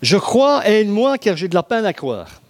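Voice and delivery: high, loud plea of a desperate father; pleading cry. Acted. Un père désespéré implore Jésus, cri suppliant. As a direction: cry out your faith and your doubt.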